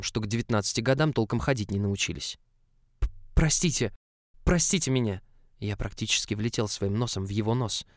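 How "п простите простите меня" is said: flustered stammering apology. Acted. Clumsy assistant spills hot coffee.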